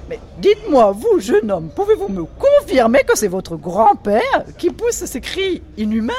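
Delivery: high, loud affected society lady; high, loud voice of an affected Parisian lady complaining about the noises; Diane's voice. Acted. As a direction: play the shrill grande dame fussing at breakfast. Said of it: "le regardait droit dans les yeux".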